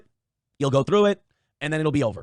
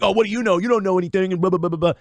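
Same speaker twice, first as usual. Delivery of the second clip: put-on bratty teen talking back, a bit higher; lightly mocking teenage defiance; mock defiant kid; 3 semitones higher than usual. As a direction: sneer it like a kid who knows better. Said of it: "you'd get defiant and you'd be like".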